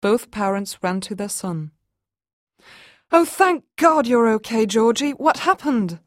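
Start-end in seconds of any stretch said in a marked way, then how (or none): 3.1-6.0 relieved mother. Acted. Mother finds lost son.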